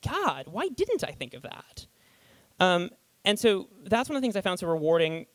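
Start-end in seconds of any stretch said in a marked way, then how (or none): 0.1-1.9 slow, mock self-reproach; rueful wonder. Reader kicking themselves over Doyle's clue, rueful. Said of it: "Doyle makes you go".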